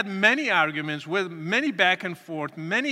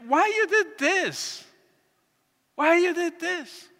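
mild mock yell, stretched and pleading; retold father's yelling; 7 semitones higher than usual. Father confronting his converted son, retold yelling without full volume. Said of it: "he was just yelling".

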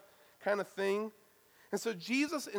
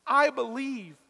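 desperate cry; 5 semitones higher, 7 dB louder than usual. Retold or imitated. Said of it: "He cries out in desperation".

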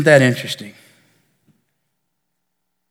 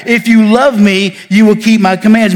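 dissatisfied; 3 semitones higher than usual. Retold or imitated. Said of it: "this voice that seems full of dissatisfaction".

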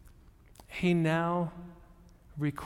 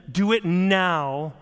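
slow, loud and insistent; a demand; 7 dB louder, slower than usual. Retold or imitated. Preacher voicing a demanding prayer, slow and loud. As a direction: demand it now, slowly and loudly.

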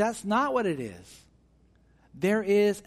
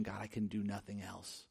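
desperate prayer; 7 semitones lower, 12 dB quieter than usual. Retold or imitated. Desperate prayer voiced as example.

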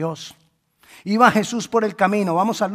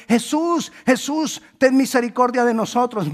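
high-pitched mock calling from afar; mildly raised, pleading call of the lepers; imitando gritos; 5 semitones higher, 3 dB louder than usual. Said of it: "ellos empiezan a gritarle de lejos". (llamada aguda imitando gritos)

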